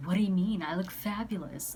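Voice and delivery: imitated flamboyant date, loud at the start; mock-offended, showy retort. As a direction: play up the showy self-admiration. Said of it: "if they're being too flamboyant".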